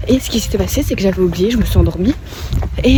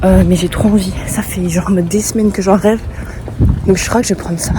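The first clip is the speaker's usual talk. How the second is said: out of breath while walking; wheezing between words; wheezy voice. Real, not acted. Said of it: "Pourquoi je suis essoufflée?".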